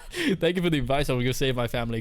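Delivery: mock-grateful reply through a laugh; amused role-play. Streamer redoes Rick's thanks, laughing. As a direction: laugh into the thanks, at full volume.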